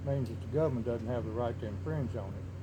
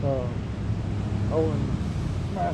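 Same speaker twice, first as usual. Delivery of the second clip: louder and more forceful, pressing each name; raised voice; 3 semitones higher, 5 dB louder than usual. Real, not acted. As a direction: lean in hard on every company name. Heated rant naming gun companies.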